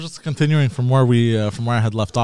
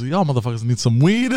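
imitating tow truck driver; 3 semitones lower than usual. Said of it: "he goes".

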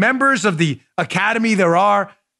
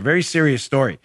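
ordinary delivery

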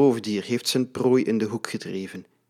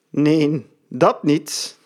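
giggling; 4 semitones higher, 4 dB louder, much slower than usual. A narrator's reading. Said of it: "giechelt Antonissen".

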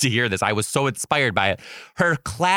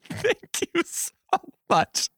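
mock gushing thanks; slower than usual. Teacher thanking kid.

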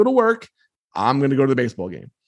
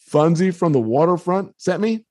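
tentative, higher-pitched, questioning rise; meek; 4 semitones higher than usual. Retold or imitated. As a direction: retell it as a timid kid unsure of the password. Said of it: "all meek sounding".

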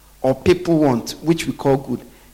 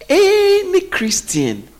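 ANY Christian, pitched much higher and drawn out slowly; emphatic slow stress; much slower than usual. Acted. Preacher warning the congregation, high and drawn-out emphasis. Preacher hammering his point.

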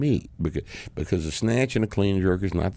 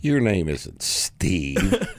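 flat slow retort; much slower than usual. Retold or imitated. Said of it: "And I'll say".

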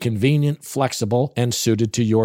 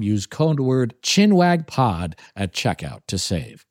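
slow promo read; 4 semitones lower, slower than usual. Shown as a demonstration.

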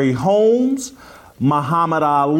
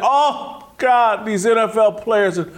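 mocking sympathy. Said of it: "this whole thing that".

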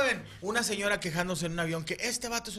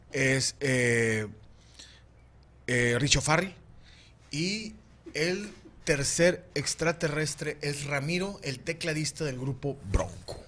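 alien voice; 2 semitones lower, slower than usual. Acted. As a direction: speak as a pompous alien captain. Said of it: "estoy hablando como extraterrestre".

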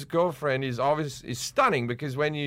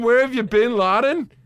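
louder, higher quip; loud punchy one-liner; 6 semitones higher, 6 dB louder than usual. Acted. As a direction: land it like an action hero. Acting out a killer line.

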